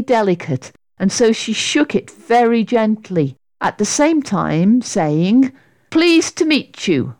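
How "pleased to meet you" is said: high, careful courtesy; best-manners greeting; very polite. A narrator's reading. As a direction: greet as politely as you can manage. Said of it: "as politely as she could manage".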